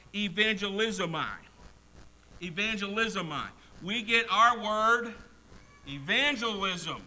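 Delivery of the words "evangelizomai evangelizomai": "evangelizomai" said as e-van-ge-li-zo-mai; Greek pronunciation. Shown as a demonstration. Preacher teaching the congregation the Greek word, careful pronunciation. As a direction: sound out "Evangelizomai" carefully, syllable by syllable. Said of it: "that is pronounced".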